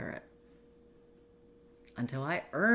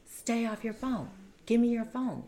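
higher, louder mock angry order; imitating the husband snapping at her; retold angry demand; 10 semitones higher, 3 dB louder than usual. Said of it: "And he got angry".

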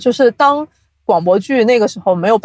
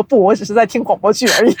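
mock modest; faster than usual. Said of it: "深藏功与名的这种中二感".

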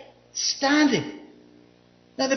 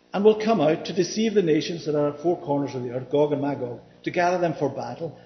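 lower-pitched recital of a Bible passage; scripture reading; 6 semitones lower than usual. Acted. Preacher reads of the final battle, low scripture recital. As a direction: read it out steadily in a low register.

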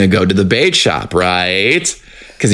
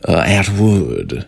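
put-on Southern accent; 4 semitones lower, much slower than usual. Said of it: "very good Southern accent".

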